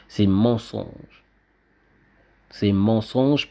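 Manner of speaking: each syllable of "c'est mensonge" drawn out slowly and firmly; slow emphatic denial. Real, not acted. Speaker to viewers, insisting the space footage is a lie, slow and emphatic.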